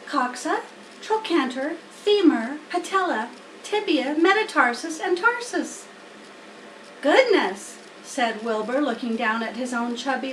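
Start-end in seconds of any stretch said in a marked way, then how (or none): 0.1-5.9 higher, each name spaced out; a spider patiently reciting; Charlotte reciting. Acted. Charlotte repeating names for Wilbur, patient recital. 7.0-7.8 higher, louder little gasp of a word; surprised pig. Acted. Wilbur reacting to seven sections, surprised.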